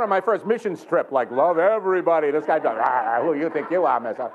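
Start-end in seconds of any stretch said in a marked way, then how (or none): 2.8-4.3 growled challenge, retold; mock-growl at the man who tripped. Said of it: "I think I growled".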